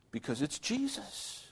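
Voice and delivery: preacher answering his own question softly; hushed answer. Real, not acted. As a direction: let the answer fall quiet.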